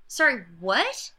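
slow, confused "Sorry, what?"; slow puzzled query; baffled. Retold or imitated. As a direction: sound completely lost. Baffled viewer reaction.

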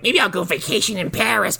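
high, mocking sarcastic voice. Wife mocking her husband's question, high sarcastic sneer. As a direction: sneer it like a bored housewife. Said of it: "She's like".

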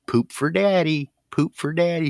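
put-on high sing-song baby talk; coaxing pet talk. Owner urging his bearded dragon in the bath, high coaxing.

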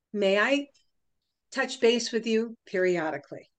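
measured pitch with blank spaces between phrases; deliberate pauses. Shown as a demonstration. Psychologist demonstrating the no formula to a customer, deliberately paused. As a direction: pause after "However", "permission" and "may I". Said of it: "Listen for the pauses and the inflection".

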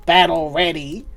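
sweet motherly tavern keeper; barmaid Flo. Acted. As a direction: purr it like a doting innkeeper.

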